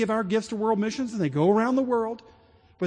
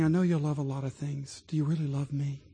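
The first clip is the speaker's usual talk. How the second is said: God's tender voice; 4 semitones lower than usual. Retold or imitated. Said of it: "And the Lord is saying".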